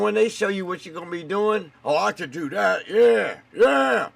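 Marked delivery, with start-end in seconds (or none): 1.8-4.1 high, loud cocky mock voice; mock eager kid. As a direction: ham up a cocky young worker. Mocking eager kids.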